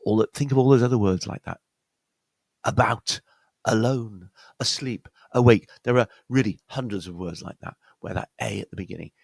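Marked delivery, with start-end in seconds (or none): 2.6-5.7 "About, alone, asleep, awake" each opening on a weak schwa; second-syllable stress. Shown as a demonstration. Teacher lists other words like that, stressing second syllables. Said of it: "stress is on the second syllable".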